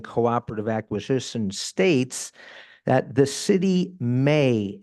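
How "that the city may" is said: slow down and lean hard on "may"; "may" drawn out and pressed, spoken slowly; stress on may. Real, not acted. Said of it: "I want to emphasize the word may".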